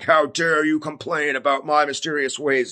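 mildly put-on indignant God; mock rebuke. Imagined Lord to a complainer, mock indignant rebuke. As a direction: play at scolding someone who dared to question you.

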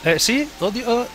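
high, sobbing little frog; crying frog voice. Acted. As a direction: wail it out like a crybaby frog. Mallow crying in game.

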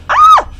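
sudden very high, loud scream; piercing startled scream; jump-scare shriek. Real, not acted. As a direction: shriek mid-sentence in shock.

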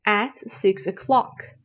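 At stressed, read slowly; slow model answer. Shown as a demonstration. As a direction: repeat the answer slowly, leaning on At. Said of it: "گزینهٔ درست".

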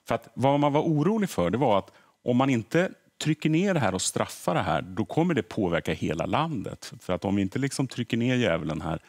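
ordinary talk

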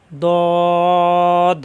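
দদ said heavy and emphatic, loud and held; emphatic দদ, loud and drawn out; heavy Arabic letter. Shown as a demonstration. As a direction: press the tongue root up and give দদ full weight. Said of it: "মোটা বা ইস্তিলার হরফ সাতটি".

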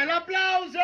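party host calling for applause. Real, not acted. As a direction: stretch the last word to rouse the crowd. Clown calls for applause.

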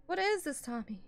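alarmed. Real, not acted. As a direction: ask anxiously, rising pitch. Alarmed questions to Tommy.

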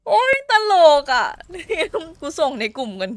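laughing fit between words; giggling, trying to stop laughing; breaking character. Real, not acted. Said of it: "ขำไม่ไหว". (หัวเราะไม่หยุด)

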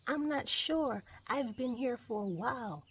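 high-pitched little cub voice; bear cub. Acted. Cub answers the wolf.

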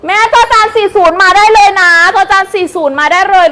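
loud, high sales call. Real, not acted. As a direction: call out the order code loudly. Calling out order code.

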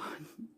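brief quiet breath of a laugh; short laugh. Real, not acted. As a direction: let out a small soft chuckle. Amused at missing the greeting.

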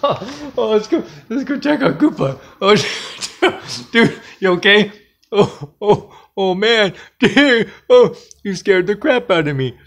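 high, giggly aftermath of a scare; laughing. Real, not acted. Checking on Koopa after the scare, laughing. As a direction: keep breaking into laughter as you speak.

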